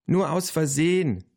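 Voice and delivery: put-on high-pitched child's call. A narrator's reading. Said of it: "rief Tiffany". (hoch gerufen, Kinderstimme)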